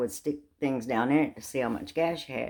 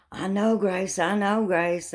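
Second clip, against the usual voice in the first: sheepish apology; 6 semitones higher, slower than usual. Retold or imitated. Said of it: "I'm going".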